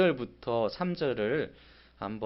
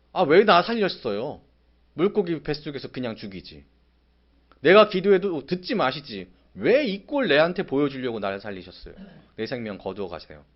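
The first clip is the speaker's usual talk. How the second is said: louder, accusing God point-blank; furious protest; 6 dB louder than usual. Acted. Jonah yelling at God for saving him, furious. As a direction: spit it out like a sulking, enraged prophet. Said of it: "이 노하는 것이".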